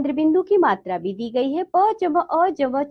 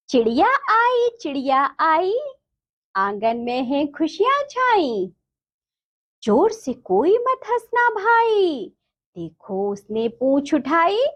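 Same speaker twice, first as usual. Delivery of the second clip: sing-song verse with swooping pitch; children's rhyme recitation. Shown as a demonstration. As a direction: recite it line by line for small pupils.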